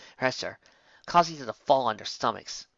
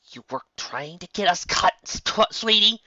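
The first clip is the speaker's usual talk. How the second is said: sarcastic; 7 semitones higher, 4 dB louder than usual. Acted. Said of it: "he asked her sarcastically".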